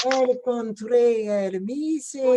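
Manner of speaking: Encontré el mi señor, slow, each syllable clear; slow careful Encontré el mi señor; slow Spanish line. Shown as a demonstration. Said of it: "si vous avez du mal à rouler les R, il y a un, un L".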